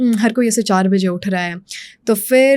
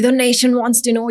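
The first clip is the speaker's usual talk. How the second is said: Arnab Goswami imitation; much slower than usual. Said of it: "ये अपनी intonation को improve करना है".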